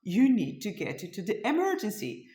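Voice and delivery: firm, worked-up command to a daughter; frantic insistence. Retold or imitated. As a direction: insist like an alarmed mother. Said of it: "And I'm going crazy".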